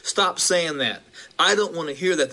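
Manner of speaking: a slow, mock-angry shove-off from the churchgoers; aggressive words. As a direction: lightly act out the irritated churchgoers telling the preacher to stop. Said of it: "very aggressive words".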